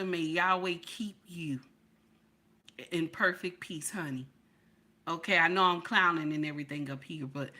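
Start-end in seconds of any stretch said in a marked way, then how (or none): 0.0-4.3 soft, low whispered prayer; whispered blessing. Real, not acted. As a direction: bless her gently, almost a whisper. Blessing a viewer softly.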